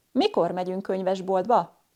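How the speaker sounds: "Mikor" starts high, then "megyünk könyvesboltba" drops low; rise on question word. Shown as a demonstration. Teacher giving a question-word example, high rise on "Mikor". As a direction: lift "Mikor" and let the rest fall. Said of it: "has a higher rise on the question word".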